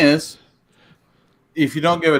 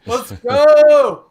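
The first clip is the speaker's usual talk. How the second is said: frat bro; 3 semitones higher, slower than usual. Real, not acted. Hyped sports rant, frat bro.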